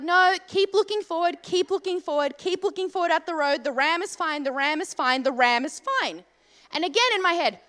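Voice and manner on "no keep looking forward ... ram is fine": self-talk. Retold or imitated. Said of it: "So I'm like".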